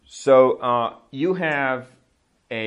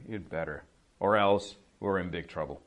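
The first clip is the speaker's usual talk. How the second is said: mild threat; 4 semitones lower than usual. Shown as a demonstration. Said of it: "What you're saying is".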